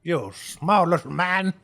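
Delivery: high, loud, slowed-down taunt; gloating Herb. Acted. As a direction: rub it in to a rival. Herb gloats over the boss.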